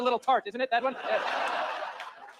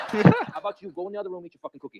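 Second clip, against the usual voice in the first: irritated dad; 7 dB louder than usual. Acted. Dad dismissing child.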